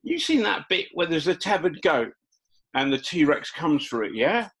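a hint of Essex, lightly voiced; Essex accent. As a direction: keep a touch of the Essex accent going. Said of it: "She's got an Essex accent".

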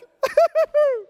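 loud, high burst of laughter; joyful laugh. Real, not acted. Preacher laughing with joy at the story. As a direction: laugh out with delight.

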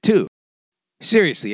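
ordinary talk, nothing marked

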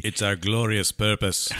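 a light mock British Loki voice; slow, grand, lightly put-on English accent. Quoting Loki to the podcast hosts in a mock British accent. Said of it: "I don't know what that accent was".

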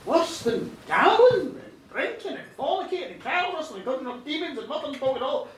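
can't believe it; incredulous king. Acted. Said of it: "the king went".

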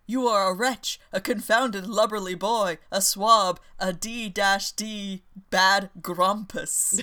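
mild acted indignation, punching each insult; mock-angry scolding. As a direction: pile up the insults, slowing hard on the last. Admiral insults his nephew in story.

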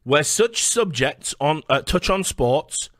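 slow, deliberate memo read; measured, emphatic document reading; reading a memo aloud. Acted. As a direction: read it out word by word, slowly.

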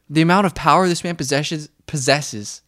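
slurred words; mumbling the words slurred; slurring. Real, not acted. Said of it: "slurring freak today".

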